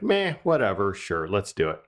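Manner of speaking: casual shrug of a reply, falling in pitch; offhand. Retold or imitated. Dad casually approving a quarantine pet, offhand. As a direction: toss it out like it hardly matters. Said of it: "just kinda threw it out there".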